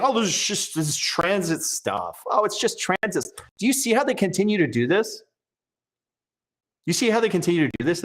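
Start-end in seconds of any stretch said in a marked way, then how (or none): 0.0-3.2 mock dismissive. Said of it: "he is B S ing you when he's saying".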